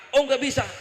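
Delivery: acted indignation; indignant refusal. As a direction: refuse her outright, as the angry prophet. Acted prophet refusing the plea.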